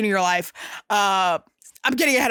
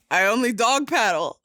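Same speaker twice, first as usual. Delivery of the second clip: laughing. Real, not acted. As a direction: quote broken by real laughter. Fezzik quote, laughing.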